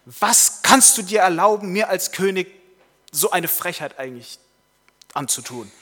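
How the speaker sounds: loud, high outburst of outrage; furious shouting. Acted. King yelling at the valet who woke him, furious. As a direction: bellow in royal indignation, easing off at the end. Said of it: "beschimpft ihn und schreit ihn an".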